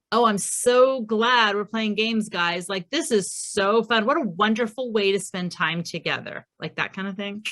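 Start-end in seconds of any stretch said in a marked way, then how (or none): 0.1-6.5 biting sarcasm. Retold or imitated. Parent to kids fighting over a dice game, sarcastic. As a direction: lay on the fake delight, with a bite. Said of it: "immature sarcasm".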